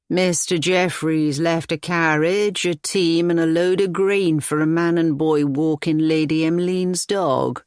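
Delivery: a plain country cottager reporting his errand; old cottager. Acted. Narrator voices the old cottager.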